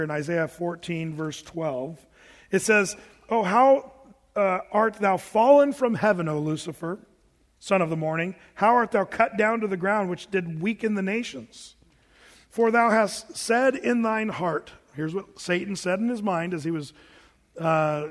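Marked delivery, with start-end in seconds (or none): 3.3-14.7 louder, solemn King James reading; scripture reading. Acted. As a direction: proclaim the verses to the congregation. Reads Isaiah aloud.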